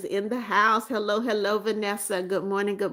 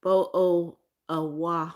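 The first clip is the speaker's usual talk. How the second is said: slow, exaggerated British glottal stops; mock British accent; slower than usual. Streamer reading a viewer's joke about British people, mock British accent. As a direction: drag out a mock British accent, dropping the consonants. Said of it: "Be like when saying bottle of water".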